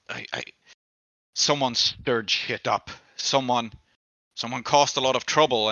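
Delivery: put-on nervous drunk explaining who hurt him; lightly voiced beaten drunk. GM voices Mophis at length.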